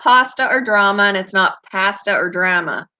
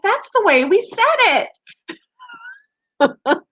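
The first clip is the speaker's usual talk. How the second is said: defensive reply. Retold or imitated. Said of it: "I'm like".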